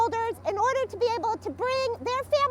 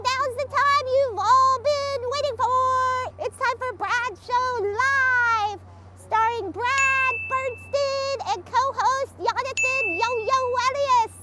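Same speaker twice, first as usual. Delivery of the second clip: announcer; slower than usual. Acted. Introduces the show.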